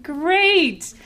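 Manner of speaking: high, loud forced brightness; fake cheerful great. Teller lies to the woman that she is fine, high and forced. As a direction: cover the tears with a false bright great.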